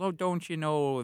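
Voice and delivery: put-on light Minnesota mom accent; a hint of a Minnesota accent. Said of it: "the Minnesota accent".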